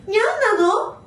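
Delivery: lightly echoing the cutesy cat talk; cat-speak imitation. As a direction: copy her nya-speech playfully.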